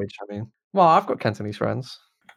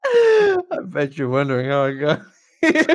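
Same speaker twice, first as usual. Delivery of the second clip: movie voiceover; 3 semitones higher, 4 dB louder than usual. Pretend. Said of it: "repeating the movie line".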